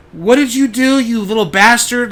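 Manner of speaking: high, loud, accusing teacher voice; angry teacher. Retold or imitated. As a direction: snap at the boy like he hurt a child on purpose. Teacher glaring at accused boy.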